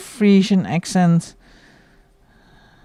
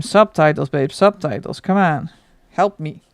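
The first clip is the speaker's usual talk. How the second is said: louder, pleading call for subtitles, babe; half-joking yell begging for subtitles; mock scream for subtitles; 4 dB louder than usual. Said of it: "And I just scream".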